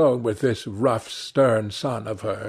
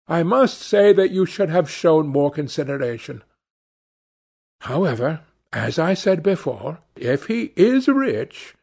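mildly put-on voice of a complaining mother; higher pitch, a hint of reproach; fretful mother; 4 semitones higher than usual.

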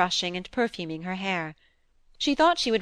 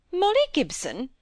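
a higher, surprised questioning repeat of Molly Gibson; out loud; 10 semitones higher than usual. A narrator's reading. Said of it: "said the lady out loud".

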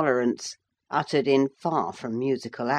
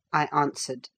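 ordinary delivery, nothing marked

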